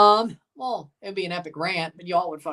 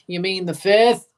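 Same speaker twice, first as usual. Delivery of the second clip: louder sarcastic question; 3 semitones lower, 5 dB louder than usual. Real, not acted.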